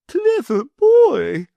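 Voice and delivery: high, sugary lady's voice; greedy wife in a high fluting voice; the Wardeness. A narrator's reading.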